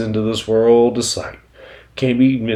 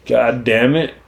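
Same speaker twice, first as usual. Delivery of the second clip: mock pained cursing; 5 semitones higher, 5 dB louder than usual. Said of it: "and like".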